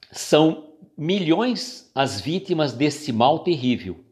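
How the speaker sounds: slow, weighty book reading with pauses; measured, deliberate recitation of a text; solemn reading aloud. Acted. Reads the book passage aloud.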